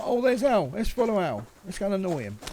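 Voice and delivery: mock the pests spotting their target; mimicking pestering followers. Pests spotting Al to annoy, lightly mimicked. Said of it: "It's like".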